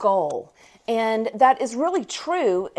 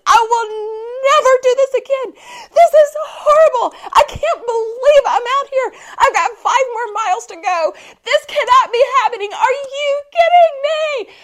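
much higher and louder, tearful ranting; upset wailing rant; 14 semitones higher, 6 dB louder than usual. Retold or imitated. Told five more miles, a high loud tearful rant. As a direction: rant through tears, fed up. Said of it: "I am mad".

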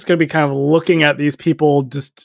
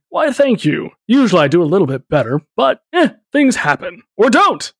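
jovial centaur; 5 semitones higher than usual. Acted. Centaur character speaks to Damien.

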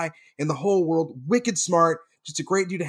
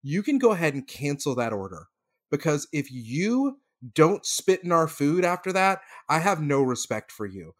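calm apology. Retold or imitated. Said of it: "my brother's like".

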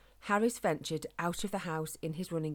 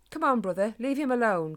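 louder call to his brother down the path; 5 semitones higher, 8 dB louder than usual. A narrator's reading. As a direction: call out to pull your brother away. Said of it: "called one of them".

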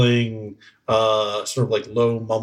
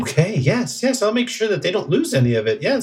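high, quick little goblin voice; hurried and obliging, pitched up; eager small creature agreeing fast; 8 semitones higher, faster than usual. Acted.

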